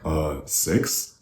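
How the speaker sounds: soft hesitant "six?" rising at the end; student guessing the answer to a teacher; unsure question. Retold or imitated. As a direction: answer the teacher, waiting for approval. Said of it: "they go like".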